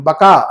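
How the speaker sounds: بکا ending in a long open aa; alif sound. Shown as a demonstration. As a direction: stretch the final alif of بکا. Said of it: "الف کی آواز نکال رہے ہیں ہم". (بکا، آخر میں الف کی لمبی آواز)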